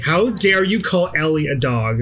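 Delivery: mildly indignant mock outrage; mock scolding. Imagined critic scolding the player over Ellie, indignant. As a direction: put on an offended telling-off, drawn out. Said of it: "probably Killen's trying to be like".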